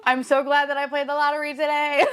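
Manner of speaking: high, laughing and near tears; overjoyed, half-crying laugh-talk; tearful joy. Real, not acted. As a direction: squeal it through happy laughter. Laughing-crying after rare pull.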